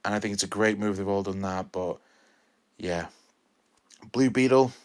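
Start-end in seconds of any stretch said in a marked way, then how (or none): 4.1-4.7 Blue Beetle called out loud and high; real excitement, calling out Blue Beetle; excited shout. Real, not acted. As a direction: shout the title like a hype man. Enthusiastic closing plug of film.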